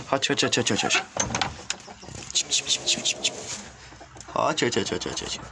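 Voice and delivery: sing-song chicken call; calling hens over for the wheat, coaxing chant. Real, not acted.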